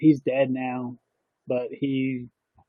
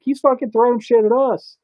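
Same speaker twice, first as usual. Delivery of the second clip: higher, louder mock outrage; hammed-up kid defending himself; indignant protest; 9 semitones higher, 4 dB louder than usual. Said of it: "I'm like".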